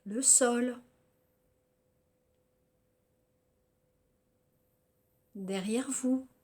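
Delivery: measured yoga nidra guidance with long pauses between phrases; guided relaxation. Acted. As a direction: guide them through body and senses, phrase by phrase.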